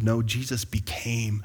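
slow, firm NO correcting the misquote; stress on No. Shown as a demonstration. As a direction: lean on the No. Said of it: "misquote the scripture".

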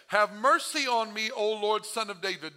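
crying out. Acted. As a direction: call out for mercy, high and strong. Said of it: "she cried out to Jesus".

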